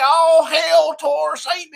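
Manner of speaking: slow, loud mock shout. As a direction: shout it slowly like a heckler. Mocking a disruptive churchgoer.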